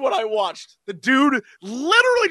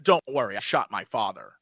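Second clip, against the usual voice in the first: low, deadpan mock hero line; mock tough guy; 5 dB quieter than usual. Mocking Ward's big moment, low and deadpan. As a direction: parody a cheap hero moment. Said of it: "he's like".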